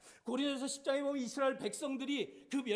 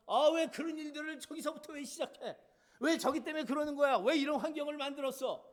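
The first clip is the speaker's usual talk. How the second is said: mock blaming; 3 semitones higher than usual. Acted blaming quarrel at home.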